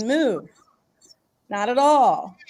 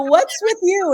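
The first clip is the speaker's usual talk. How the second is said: alarmed question; 9 semitones higher, 4 dB louder, slower than usual. Retold or imitated. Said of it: "I go".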